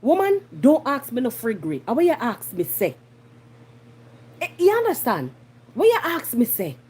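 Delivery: vexed Jamaican rebuke; mildly irate, emphatic challenge; riled up. Real, not acted. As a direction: demand an answer, annoyed. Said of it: "my bringle".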